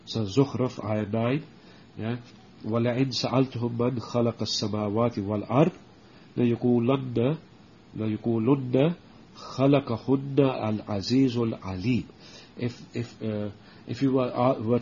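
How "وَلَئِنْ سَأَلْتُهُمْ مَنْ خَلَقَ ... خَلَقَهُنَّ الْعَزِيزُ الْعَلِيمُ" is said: quick, even recitation of the Arabic verse; Quran recitation. Acted. Teacher reciting the ayah for his students, quick recitation. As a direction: recite the ayah smoothly and swiftly.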